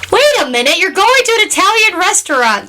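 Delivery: high-pitched, incredulous mock protest; mock disbelief. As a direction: retell it as a scandalized objection. Mock outrage at Italian restaurant.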